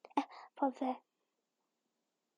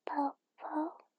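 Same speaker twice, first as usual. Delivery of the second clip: vocal fry; 3 semitones higher, 4 dB quieter than usual. Acted. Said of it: "那我也叫这个。". (气泡音)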